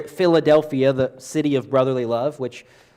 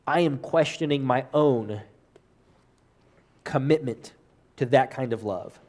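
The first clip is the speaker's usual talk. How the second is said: humbled admission. Acted. Voicing a humbled disciple's doubt.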